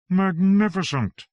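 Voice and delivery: high, drawn-out wonder; awed exclamation. A narrator's reading. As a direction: savour the word slowly, pitched well up. Awed reaction to the picture.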